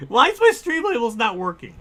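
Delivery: real frustrated outburst; exasperated repeat. Real, not acted. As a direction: throw the complaint up in disbelief. Repeats complaint, higher and louder.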